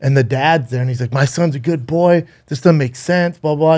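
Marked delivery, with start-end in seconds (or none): 1.1-3.8 higher-pitched mock indignation; mildly acted outrage, raised pitch; retold furious dad. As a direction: imitate an angry father protesting. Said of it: "He's furious".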